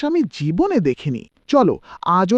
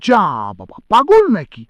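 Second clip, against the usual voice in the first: louder, stunned exclamation; shocked scoff; 5 dB louder than usual. Acted. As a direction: react in disbelief. Neighbour reacts to rude reply. (অবাক হয়ে বিস্ময়)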